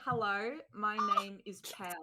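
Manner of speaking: slow demonstrated Australian sentence; Australian accent. Shown as a demonstration. Giving a friend a sentence to copy, slow Australian accent. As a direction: model an Australian accent slowly. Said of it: "Can we get your Australian accent".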